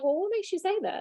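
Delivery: sincerely curious tone. Showing how to ask the question back: asking genuinely, out of curiosity. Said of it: "you gotta say it in a love".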